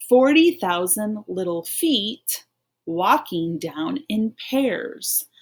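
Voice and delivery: slow, even read-along pace. Shown as a demonstration. Teacher reading along with pupils, slow and even. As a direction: read slowly so they can follow. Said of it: "Let's keep reading".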